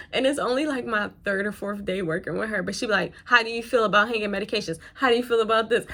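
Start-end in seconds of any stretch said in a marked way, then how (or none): 3.2-5.9 mock preceptor yelling. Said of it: "She be yelling at me".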